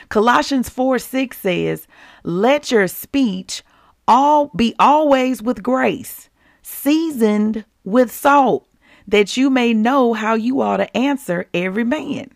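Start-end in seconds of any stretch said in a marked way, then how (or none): 2.2-12.3 slow, deliberate reading of the verse; slow scripture reading. Acted. Preacher slowly reading the verse to the congregation. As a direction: read each phrase slowly and weightily.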